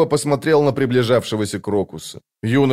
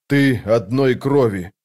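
slow, measured ritual answer; solemn choral response; slower than usual. A narrator's reading. The other hunters answer her oath, solemn. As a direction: answer slowly, as one chorus. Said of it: "хором откликнулись остальные".

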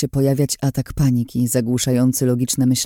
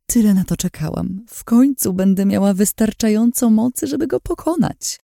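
higher, eager villainess gloating; trembling excitement; 9 semitones higher than usual. A narrator's reading. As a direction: savour the moment, shaking with greed. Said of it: "mamrotała pod nosem, drżąc z ekscytacji".

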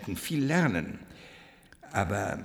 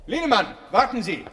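urgent call across the corridor; 9 semitones higher, 4 dB louder than usual. Acted. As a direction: call after him, higher and louder. Calling after a departing colleague.

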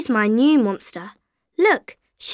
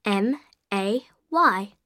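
letter by letter; spelling it out; 4 dB quieter than usual. Shown as a demonstration. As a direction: spell each letter clearly. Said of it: "How do you spell that?".

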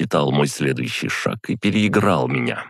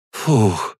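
"phew" let out high in relief; relieved exhale; 7 semitones higher, 3 dB louder than usual. A narrator's reading. Sister unable to hold back, relieved exhale. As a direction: blow out a pent-up breath with relief. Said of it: "облегченно выдохнула Алиса".

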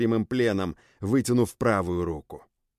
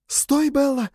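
cry out; 4 dB louder, slower than usual. A narrator's reading. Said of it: "выкрикнула Люча".

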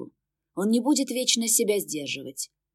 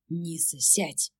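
much softer, calm demon; 5 dB quieter, much slower than usual. Acted. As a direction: settle her quietly. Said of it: "спокойно сказал демон". (демон спокойно и тихо)

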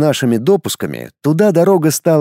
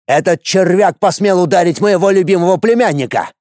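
enraged warrior; 5 semitones higher than usual. Acted. Warrior rages over nephew.

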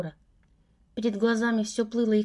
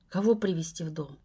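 menacing bewilderment; 5 semitones lower than usual. A narrator's reading. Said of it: "угрожающие нотки".

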